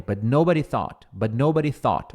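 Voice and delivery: "nobody" as NO-buh-dee inside the phrase; weight on the "no" of "nobody"; stress on NO. Shown as a demonstration. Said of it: "Olha como soa melhor". ("nobody" com o "no" forte na frase)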